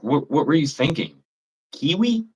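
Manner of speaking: very high rising squeak of disbelief; incredulous. Real, not acted. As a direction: shriek it, can't believe it. Disbelief at kiwi in chili.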